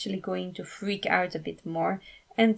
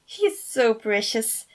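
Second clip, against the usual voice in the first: squealing; 2 semitones higher, 3 dB louder, slower than usual. Acted. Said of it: "Fabio squealed".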